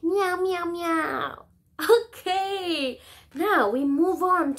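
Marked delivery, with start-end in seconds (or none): 0.0-1.5 cat meow. Shown as a demonstration. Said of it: "the cat really likes eating".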